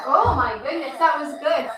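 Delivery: laughing delight at a good lunge. Real, not acted. Teacher laughing as child finishes lunge, delighted laughter. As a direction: let the laugh spill into it.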